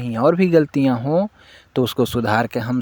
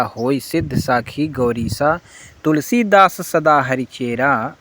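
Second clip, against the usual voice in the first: a lightly chanted reading of the verses; devotional recitation; slower than usual. Acted. Devotee reads the closing verses of Hanuman Chalisa, gently chanted.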